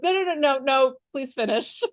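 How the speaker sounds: lightly acted kid begging; pleading grandson. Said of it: "And he's like".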